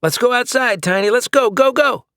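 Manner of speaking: high, loud coaxing of a dog; excited coaxing. Acted. Owner urging his little dog to go out, excited. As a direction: chirp it out to get the dog moving.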